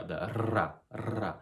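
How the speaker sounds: ra trilled with a rolled R. Shown as a demonstration. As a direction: roll the R in ra. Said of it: "which is the rolled R".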